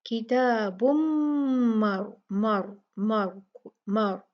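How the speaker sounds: किताबुम मर with the न merged into म and a nasal hold; ikhfa into meem. Shown as a demonstration. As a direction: repeat मर, merging into the meem. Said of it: "तो कैसे पढ़ेंगे?".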